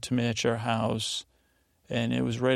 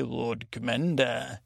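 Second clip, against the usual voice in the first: slow, drawn-out put-on title; said differently; slower than usual. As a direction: draw out the title in an imitated voice. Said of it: "you said it different that time".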